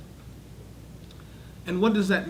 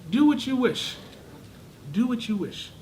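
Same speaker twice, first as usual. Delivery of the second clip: higher, weighty "Do what you wish" as a warning; ominous permission; 4 semitones higher than usual. Shown as a demonstration. God warning the wrongdoers, ominous. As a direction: say it as a threat dressed as permission. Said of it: "addressing to that group of wrongdoers".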